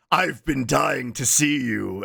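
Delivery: slow, drawn-out greeting; slow deadpan imitation; imitated video character. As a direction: stretch every word with mock drama. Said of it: "he goes".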